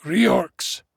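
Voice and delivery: put-on high, testy old dwarf; irritable. A narrator's reading. Dwarf to friend who didn't hear, irritable. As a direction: repeat it irritably, pitched high. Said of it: "replied the dwarf irritably".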